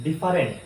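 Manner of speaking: "ডিফারেন্ট" as di-FA-rent; "ডিফারেন্ট" with a full middle a; mistaken pronunciation. Shown as a demonstration. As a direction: say "ডিফারেন্ট" in three syllables. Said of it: "ডিফারেন্টটাও ভুল".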